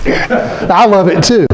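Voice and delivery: amused, laughing and slow; chuckling to the congregation, laughing. Real, not acted. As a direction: say it through a real laugh. Laughs at listener's answer.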